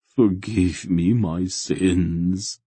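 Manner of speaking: very slow, drawn-out chant-like plea; intoned. A narrator's reading. Fanatic begging forgiveness for his sins, intoning slowly. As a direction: intone it like a penitent's prayer. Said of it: "he intoned".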